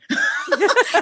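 a high bright burst of laughter; amused high laugh. Real, not acted. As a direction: laugh high at your own story. Laughs at own story.

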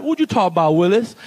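low mock Arnold voice; Diff'rent Strokes quote. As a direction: drop low for the catchphrase. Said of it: "I'm like".

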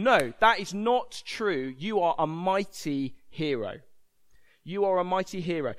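firm, deliberate proclamation; heaven's emphatic declaration. Acted. Heaven overruling the accusations against Gideon, emphatic declaration. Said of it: "heaven shouts over him".

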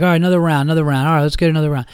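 mock huffy insistence; passive aggressive. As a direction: imitate a pushy, passive-aggressive drinker. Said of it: "real passive aggressive".

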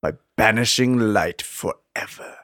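grand movie-trailer narration; epic fantasy narrator. Acted. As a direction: read it like an ancient legend. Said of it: "I faded in and out of, uh, an accent".

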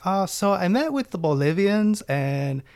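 high, loud mock mobster with an accent, stretching the praise; Hank, slightly effeminate. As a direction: gush in an effeminate put-on character voice. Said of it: "he's, like, slightly effeminate".

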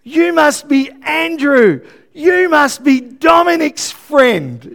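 high, slow sing-song greeting; mimicking a girl's chirpy welcome; sweet girl greeting. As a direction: coo it like an eager young churchgoer. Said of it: "She goes".

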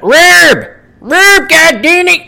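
high, slow mock yell of the name; drawn-out high shout-out; hammed-up shout. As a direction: bellow the name like a cartoon. Shouting out a friend.

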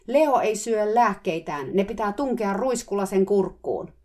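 high, loud mock shriek from the terrace. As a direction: shriek it across the yard, half acted. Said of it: "alkoi kiljumaan terassiltaan". (kiljuva huuto)

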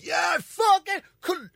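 high, slow, stretched cheer; mock victory shout; triumphant. Friend wins the argument: high, slow cheer. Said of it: "And he was like".

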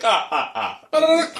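mock honking "ah, ah, ah" laugh; Eddie Murphy laugh. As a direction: imitate a comedian's signature laugh. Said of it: "it's got that Eddie Murphy voice".

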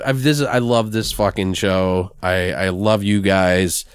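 stoner. Real, not acted. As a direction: speak like you're high on Sambuca. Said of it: "I'm high as fuck right now on Sambuca".

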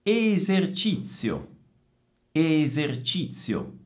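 slow, careful ESERCIZIO with crisp C and Z; model pronunciation. Shown as a demonstration. Teacher opens a pronunciation test for Italian students, careful model pronunciation. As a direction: enunciate ESERCIZIO slowly for students. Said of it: "cominciare col test di pronuncia".

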